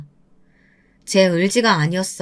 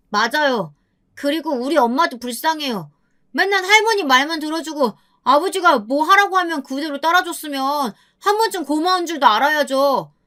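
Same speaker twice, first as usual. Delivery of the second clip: put-on higher, protesting teenage boy; indignant grandson; 5 semitones higher than usual. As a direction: stand up to grandma for mom. 손자가 할머니에게 항의. (할머니에게 엄마 편을 들며 따지는 손자의 높은 목소리)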